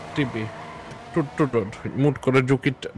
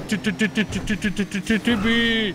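choking on the name in fear; high stammering cry; stammering panic; 5 semitones higher than usual. Acted. Stuttering in panic.

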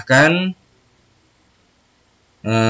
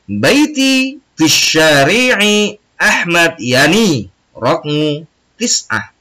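Sulaiman answering; 4 semitones higher, much slower than usual. Acted. Teacher voices Sulaiman in dialogue.

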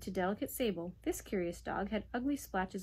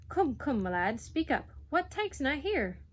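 put-on higher, louder old Duke in broad Yorkshire; 6 semitones higher, 4 dB louder than usual. A narrator's reading. Duke demanding of the boy, broad Yorkshire bluster. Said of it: "turned to the broadest tones of Yorkshire dialect".

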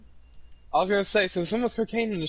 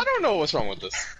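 whispering. Real, not acted. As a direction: giggly whisper. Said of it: "y'all sound like you're on something".

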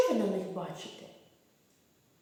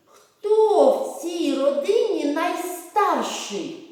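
quizzing question; 5 semitones higher, 6 dB louder, much slower than usual. Acted. Teacher quizzing children.

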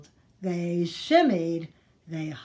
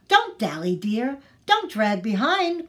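a firm call, slightly louder; 4 dB louder than usual. Acted. Father duck calls back to his daughter, mildly raised voice. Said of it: "called Mister Duck".

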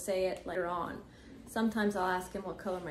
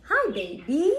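parrot voice; 7 semitones higher, 8 dB louder than usual. Retold or imitated.

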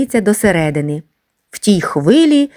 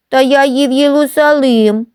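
put-on tearful child; 7 semitones higher than usual. Tearful boy answers professor.

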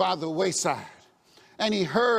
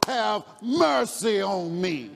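slow, drawn-out plea; burdened worshipper; 3 semitones higher, much slower than usual. Acted. Burdened folk in God's house call on the Lord, pleading. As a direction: plead in a stretched preaching cry. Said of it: "they just want to say".

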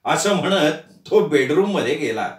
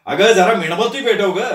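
louder call from the inner room; shouting from inside; 3 semitones higher, 4 dB louder than usual. Acted. Husband calls from the bedroom to his wife, loudly. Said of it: "Avadhoot आतूनच ओरडला".

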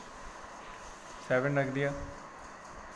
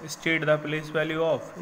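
slow reading; much slower than usual. Shown as a demonstration. Teacher reads the question again.

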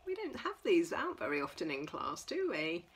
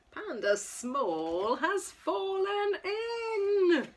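dramatic alarm; 11 semitones higher, 5 dB louder, much slower than usual. Acted. Panda falls into water.

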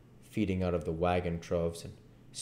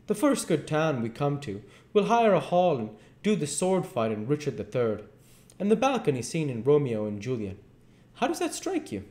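grandiose duke; 8 semitones higher, 4 dB louder than usual. Acted. Duke voiced in the story.

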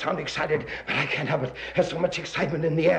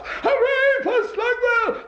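high, slow drawn-out crowd cheer; stretched high cheer from the crowd; much slower than usual. Acted. Crowd cheer shouted by announcer.

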